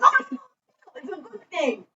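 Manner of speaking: imitation German professor; the speaker's thick German accent. German professor answers his student, thick accent. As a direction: put on a heavy German accent. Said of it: "saying this was the thickest German accent".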